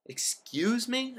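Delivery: high, slow mock-innocent echo; aping Larry's trick. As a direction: parrot him back in a high, slow, feigned-innocent voice. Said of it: "aping Larry's little irksome trick".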